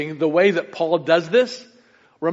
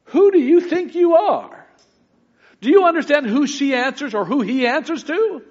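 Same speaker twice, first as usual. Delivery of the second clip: indignant CEO; 4 semitones higher than usual. Retold or imitated. Imagined CEO rebukes the speaker.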